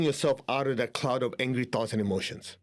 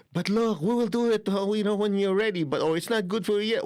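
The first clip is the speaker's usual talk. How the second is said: higher, coaxing parent voice soothing a tantrum; soothing a child; 7 semitones higher than usual. Shown as a demonstration. Parent coaxing a child who lost his lollipop, higher and soothing. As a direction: coax gently like talking to a sulking child. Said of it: "You say".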